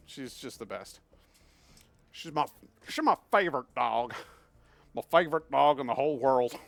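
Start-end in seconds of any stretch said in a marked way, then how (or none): 2.1-6.6 louder and louder doting praise; gushing over the dog. Real, not acted. Owner gushing louder and louder over his favorite dog. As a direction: build up the gush about your dog.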